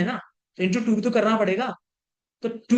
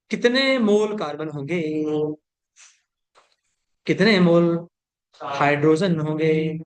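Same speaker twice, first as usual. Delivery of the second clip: measured verse delivery, lower toward the end; mock poetry recital; 5 semitones lower than usual. Teacher quizzing students on carbon and hydrogen, in mock poetry recital. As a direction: intone the question like a couplet's punchline. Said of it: "अर्ज किया है".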